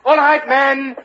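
high, carrying command; shouted order. Acted. Captain sending his men to ride, shouted order. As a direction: call out to the troops.

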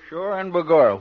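put-on Irish accent. Irish cop.

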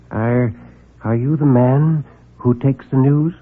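halting, hesitant little man; nervous. Acted. Timid visitor asks the reporter, nervously stammering. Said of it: "he was nervous".

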